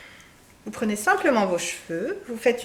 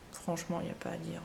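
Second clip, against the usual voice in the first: breathy confiding whisper, fast; hushed aside to viewers; 5 semitones lower, 16 dB quieter, faster than usual. Real, not acted. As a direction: lean in and whisper the secret. Confiding aside about lipstick.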